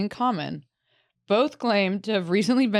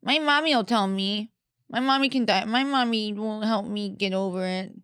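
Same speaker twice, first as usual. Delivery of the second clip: put-on mommy's boy; 3 semitones higher than usual. Mocking men who call mom when ill, mommy's-boy voice. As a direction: play a helpless grown man pining for mommy, pitched up. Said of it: "he just calls his mom".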